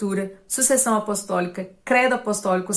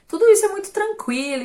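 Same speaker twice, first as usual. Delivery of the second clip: mock casual, much higher and louder, fast; breezy dismissive; 11 semitones higher, 4 dB louder, faster than usual. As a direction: brush it off like it's nothing, imitating. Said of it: "todo mundo fala assim com tanta clareza". (imitando alguém despreocupado, bem mais agudo e alto)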